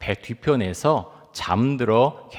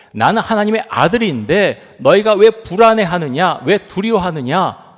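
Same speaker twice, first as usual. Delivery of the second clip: Jesus' challenge; 6 semitones higher, 7 dB louder than usual. Retold or imitated. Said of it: "묻고 있는 것입니다".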